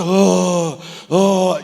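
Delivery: "oh" longo e alto de multidão; burburinho da multidão. Acted. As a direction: imite o barulho da multidão. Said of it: "A multidão tá". ("ohhh" prolongado da multidão)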